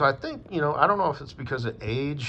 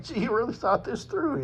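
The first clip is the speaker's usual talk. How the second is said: sarcastic; 13 semitones higher than usual. Retold or imitated. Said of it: "And it's like".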